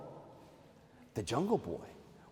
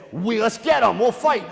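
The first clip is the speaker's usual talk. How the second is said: louder, higher rallying cry; rally the troops as monkey king; 6 semitones higher, 6 dB louder than usual. Acted. Monkey king sending monkeys to fight, rallying shout.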